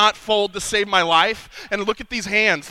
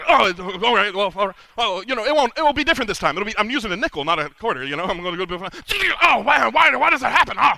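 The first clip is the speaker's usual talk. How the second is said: foolish friend; 3 semitones higher, faster than usual. Acted. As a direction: play the friend who never learns, breezy and sure. Friend acting out the light socket.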